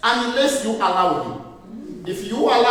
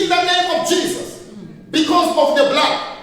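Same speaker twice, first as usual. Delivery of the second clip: higher, firm, declaring; bold prayer; 6 semitones higher than usual. Shown as a demonstration. Preacher showing the right way to pray: high and bold. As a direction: proclaim it with authority. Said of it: "how do you pray".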